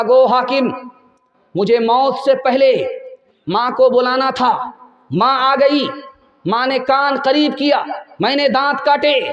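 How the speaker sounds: an accusing son, half crying by the end; condemned son's outburst. Acted. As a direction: son blaming his mother before the gallows. Condemned son rebukes the ruler.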